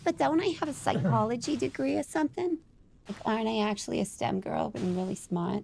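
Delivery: little flapper character voice; Harley Quinn. Acted. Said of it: "she talks like a little flapper".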